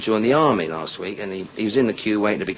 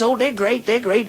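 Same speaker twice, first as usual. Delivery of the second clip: high falsetto wife on the phone; put-on high female voice; his wife; 12 semitones higher than usual. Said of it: "She says".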